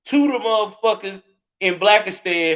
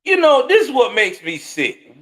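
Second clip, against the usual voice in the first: angry shout; 5 semitones higher than usual. Real, not acted. Angry rant at the girl.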